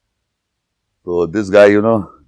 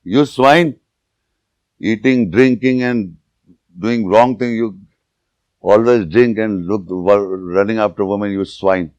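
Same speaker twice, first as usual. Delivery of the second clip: mock scolding. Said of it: "we say".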